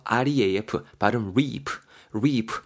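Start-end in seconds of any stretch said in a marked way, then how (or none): 1.3-1.7 "reap" with a long, drawn-out ee; long vowel. Shown as a demonstration. Teacher models the word for learners, "reap" said with a lengthened vowel. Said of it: "요렇게 길게 발음하시". 2.1-2.5 "reap" said alone with a long ee; long vowel. Shown as a demonstration. Teacher repeats the word for learners, "reap" with a lengthened vowel. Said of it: "요렇게 길게 발음하시".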